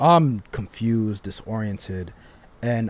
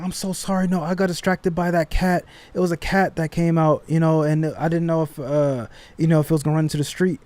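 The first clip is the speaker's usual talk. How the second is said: higher, hurried-sounding mock apology; flustered apology; 5 semitones higher, 4 dB louder than usual. Driver apologizing to him after the crash, flustered. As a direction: imitate her excuse in a higher voice.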